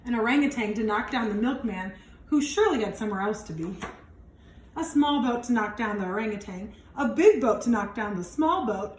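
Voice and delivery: put-on lively read-aloud for young kids; expressive picture-book narration; storybook reading. A narrator's reading. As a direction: read it out like storytime for little ones. Reads picture book to children.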